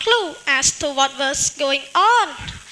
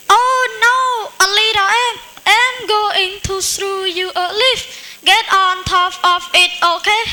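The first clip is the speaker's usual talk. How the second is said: worried bird; 4 semitones higher than usual. Acted. Bird rescuing the ant.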